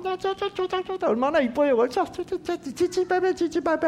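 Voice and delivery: put-on high-pitched rapid little-kid twittering; chattering kindergarteners. Lecturer imitating a roomful of kindergarteners, high chirpy chatter. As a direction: mimic excited children chirping over each other.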